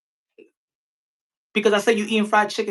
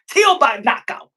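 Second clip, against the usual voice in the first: 1 hyped call; 4 semitones higher, 3 dB louder than usual. Real, not acted. Reading out a super chat.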